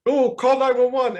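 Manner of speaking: high, loud imitated panic; panicked partygoer. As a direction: mimic a frantic bystander.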